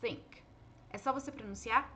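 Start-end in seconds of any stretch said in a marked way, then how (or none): 0.0-0.4 "think" with the tongue between the teeth; th sound. Shown as a demonstration. Teacher demonstrating the unvoiced th of think. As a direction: say the th of "think" as a lisped s. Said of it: "essa palavra".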